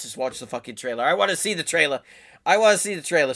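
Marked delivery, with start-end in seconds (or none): 1.0-2.0 "I wanna see the trailer", keen and a little raised; itching to hit play; eager. Real, not acted. To his viewers, impatient to watch the trailer, eager. 2.5-3.3 "I wanna see the trailer" pushed higher and louder; can't wait a second longer; more eager. Real, not acted. To his viewers, bursting to start the trailer, louder and excited.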